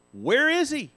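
a high, taunting sneer at the promise; the preacher voicing scoffers who doubt his return, taunting; mocking scoffer. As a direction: needle him like a scoffer.

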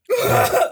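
high-pitched mock sob; imitated sobbing. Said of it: "I'm just sobbing".

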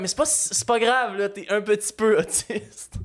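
slow, falsely soothing father voice; mock reassuring dad. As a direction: play the dad brushing it off gently. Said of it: "Pour faire comme".

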